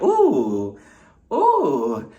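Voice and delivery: put-on cooing baby noises, drawn out; teasing baby-talk coo; mock baby voice. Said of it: "why are you making all these baby noises".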